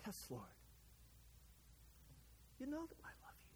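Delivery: very soft, breaking into a whisper; tearful. Acted. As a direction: whisper it with tears welling up. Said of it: "probably with tears welling up in his eyes".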